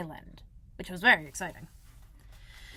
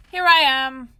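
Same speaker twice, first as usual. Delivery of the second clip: growly voice; 5 semitones higher, 12 dB louder, slower than usual. Acted. Pooh announcing himself behind Christopher Robin, in a louder growly voice. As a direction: growl it out like a cheerful bear. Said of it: "said a growly voice behind him".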